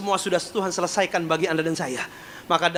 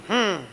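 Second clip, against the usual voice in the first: closed-mouth refusing hum; gumaman menolak. Retold or imitated. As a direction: imitate a stubborn hum with lips sealed. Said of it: "dia bilang gini". (gumam menolak dengan mulut tertutup)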